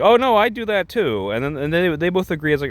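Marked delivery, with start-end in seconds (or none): 0.0-1.3 high-pitched eager agreement; mock someone chiming in, voice way up; put-on high voice; Jojo. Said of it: "then Jojo's like".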